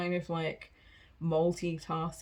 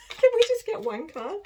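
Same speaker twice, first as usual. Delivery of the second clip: much higher, louder, laughing plea; exasperated laughing plea; 9 dB louder than usual. Real, not acted. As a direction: beg in high-pitched, amused exasperation. Playful exasperated plea to the cards.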